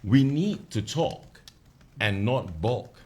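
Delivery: slow recited verse; poem recital. Shown as a demonstration. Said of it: "This is how it goes".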